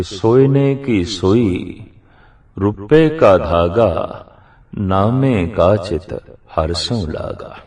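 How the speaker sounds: slow, measured verse recitation; scripture recitation. Acted. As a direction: recite the sacred line slowly, phrase by phrase. (ਗੁਰਬਾਣੀ ਦੀ ਤੁਕ ਦਾ ਹੌਲੀ, ਠਰ੍ਹੰਮੇ ਵਾਲਾ ਉਚਾਰਨ)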